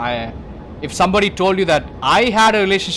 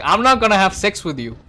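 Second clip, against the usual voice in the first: louder, higher flat refusal; firm refusal; 5 semitones higher, 4 dB louder than usual. Retold or imitated. Man refusing his ex-lover, firm refusal. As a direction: turn her down firmly. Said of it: "this dude is like".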